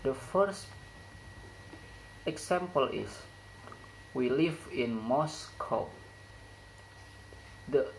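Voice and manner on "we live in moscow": statement with a falling tune on "Moscow"; falling intonation. Shown as a demonstration. Teacher models a declarative sentence for learners, falling intonation. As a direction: let "Moscow" fall away at the end. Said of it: "falling intonation occurs in word".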